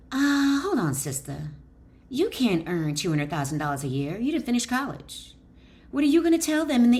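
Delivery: a lightly voiced skeptical inner critic; mildly doubting, talking down to herself; voice of the doubting mind. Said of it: "your principal mind, might reason".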